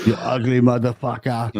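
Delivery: lightly hammed Austrian accent; mock Austrian, unshouted; Arnold Schwarzenegger. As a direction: put on a joke Austrian action-hero voice. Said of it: "Was it Arnold Schwarzenegger?".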